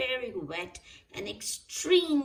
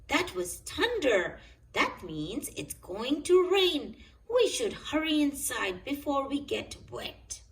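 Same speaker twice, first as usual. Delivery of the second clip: higher, louder hurried warning; urgent grandpa; 6 semitones higher, 4 dB louder than usual. A narrator's reading. Grandpa Pig warns the children of thunder, urgent higher voice. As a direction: hurry the children in before the storm.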